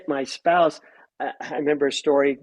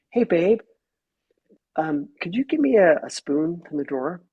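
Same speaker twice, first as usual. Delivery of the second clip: casual request; 2 semitones higher than usual. Shown as a demonstration. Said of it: "how do I talk to my spouse".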